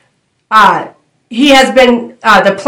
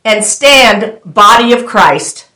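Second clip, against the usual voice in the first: very slow, drawn-out divine call; slow voice of the Lord; much slower than usual. Acted. The Lord calling the body of Christ, very slow and drawn out. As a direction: stretch each word like God calling his people. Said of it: "And the Lord is saying".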